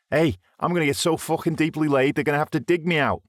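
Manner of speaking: high, leering brag; boastful. A narrator's reading. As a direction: crude lad bragging. Greaves bragging.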